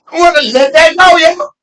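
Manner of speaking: high, choked-up plea; emotional. Real, not acted. Forgiving the brother who robbed him, voice breaking high. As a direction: voice catching as he lets it go. Moved recalling old robbery.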